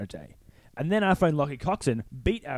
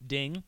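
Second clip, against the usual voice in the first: ding sound effect; 6 dB quieter than usual. Pretend. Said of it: "a little sound bite of you going, ding".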